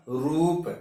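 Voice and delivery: रूप with a long ऊ and lips pushed forward; long u demo. Shown as a demonstration. Teacher demonstrating the long vowel, rounded and drawn out. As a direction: say रूप drawing out the ऊ. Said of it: "स्पष्ट है कि आपका ओष्ठ आगे निकल जाएगा".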